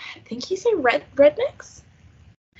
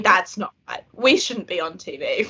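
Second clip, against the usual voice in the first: mock complaint; 4 semitones lower, 3 dB louder than usual. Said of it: "Listening to the Australian accent".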